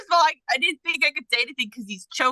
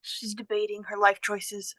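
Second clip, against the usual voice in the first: slow unvoiced whisper; whispered aside; 3 semitones lower, 6 dB quieter than usual. Real, not acted. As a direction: whisper it slowly as a teasing aside. Teasing aside about hesitating player.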